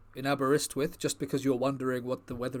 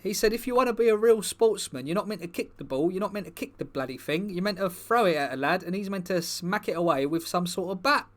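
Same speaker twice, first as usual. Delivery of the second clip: footballer character, a bit higher and louder, rambling; lightly voiced footballer persona; 4 semitones higher, 4 dB louder than usual. Footballer persona chats to the comedy crowd, lightly voiced, eager. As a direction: play the bumbling star footballer, eager and chatty. Performer plays the Park Chu-young persona.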